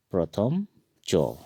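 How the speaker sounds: प्रथम चो spelled out slowly, o vowel; slow, clear प्रथम चो; Assamese letter name. Shown as a demonstration. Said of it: "इस च को हम असमिया में पढ़ेंगे". (धीरे से असमिया में प्रथम चो)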